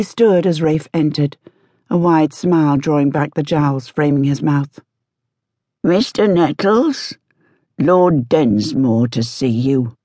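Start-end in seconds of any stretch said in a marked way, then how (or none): 5.8-10.0 creepy butler. A narrator's reading. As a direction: rasp it out slowly like a creepy old servant. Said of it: "the butler rasped".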